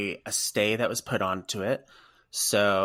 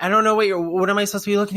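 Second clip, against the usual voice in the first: high, raised baffled question; retold confusion at raised pitch; puzzled calling back; 10 semitones higher, 7 dB louder, much faster than usual. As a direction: call back, not knowing what is meant. Retold confused reply across store.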